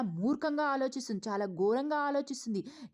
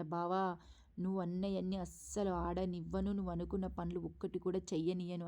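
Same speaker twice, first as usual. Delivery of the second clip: softer, scheming inner voice; inner thought; 3 semitones lower, 5 dB quieter than usual. Retold or imitated. Jyotsna plotting against her cousin, softly scheming. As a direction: think it spitefully, half to herself. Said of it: "మనసులో అనుకుంటదన్నమాట".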